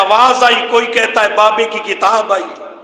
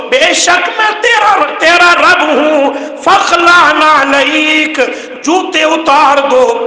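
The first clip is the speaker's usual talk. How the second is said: 1 proclaiming; 3 semitones higher than usual. Acted. Preacher voices God's proclamation.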